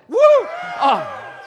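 high, loud "woo"; demonstrative cheering whoop; excited whoop. Shown as a demonstration. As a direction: whoop it up to fire up the crowd. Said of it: "if you get excited".

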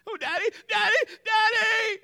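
high, loud imitation of a little girl wailing; hammed-up panicked child's cry; crying hurt child. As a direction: wail for Daddy like a hurt child. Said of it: "You know, like that".

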